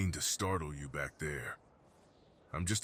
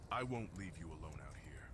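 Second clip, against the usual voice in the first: soft breathy whisper of reassurance; comforting whisper; 10 dB quieter than usual. Acted. Krex promising the freezing hiker he stays, whispered.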